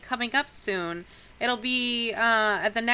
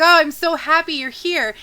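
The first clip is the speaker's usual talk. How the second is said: higher, louder grateful exclamation; overjoyed relief; 6 semitones higher, 8 dB louder than usual. Acted. Innkeeper to the party seeking his daughter, overjoyed relief. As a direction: gush with relief at their arrival.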